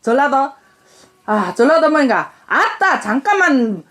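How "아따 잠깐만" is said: Jeolla accent with a raised opening; Jeolla dialect. Shown as a demonstration. Mother tries "excuse me" for her daughter, Jeolla dialect. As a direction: open with a Jeolla exclamation. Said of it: "그럼 전라도는?".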